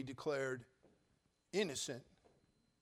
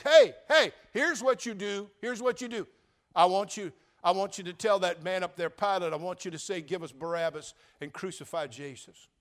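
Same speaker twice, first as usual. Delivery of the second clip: Pharisee mob; 3 semitones higher, 8 dB louder than usual. Acted. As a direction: egg the crowd on, loud and insistent. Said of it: "the Pharisee mob says".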